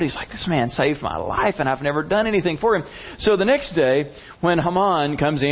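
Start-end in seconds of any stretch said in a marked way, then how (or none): 0.3-2.8 higher-pitched, mildly astonished; floored. Retold or imitated. King realizing he never repaid his rescuer, floored. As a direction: quicken up in disbelief.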